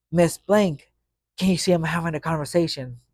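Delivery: put-on sass the teacher like a cocky kid; mock sassy backtalk. Kid mouthing off to his teacher, mock sassy. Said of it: "And I was like".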